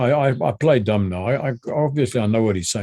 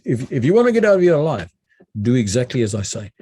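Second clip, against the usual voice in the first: authoritative; faster than usual. Retold or imitated. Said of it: "she was speaking with authority".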